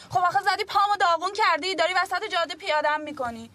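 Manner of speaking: exasperated complaint. Acted. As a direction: throw it back at him in frustration. Complains of hurt leg.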